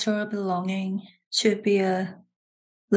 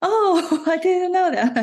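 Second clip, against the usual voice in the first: mock surprise; 10 semitones higher, 5 dB louder than usual.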